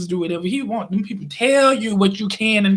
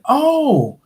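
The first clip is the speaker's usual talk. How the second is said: high bright "Oh" in her voice; imitating the lady; 9 semitones higher, 3 dB louder than usual. Narrator imitating the mall lady, high and eager. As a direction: play the eager stranger, pitched up. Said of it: "And she was like".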